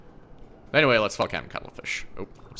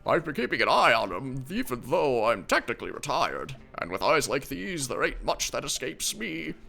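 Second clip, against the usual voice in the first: put-on grumpy old man; 3 semitones higher than usual. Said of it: "my old man voice".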